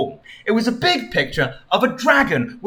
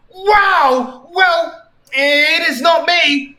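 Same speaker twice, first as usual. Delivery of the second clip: mock high retort; 11 semitones higher, 5 dB louder, much slower than usual. Sonic retorts.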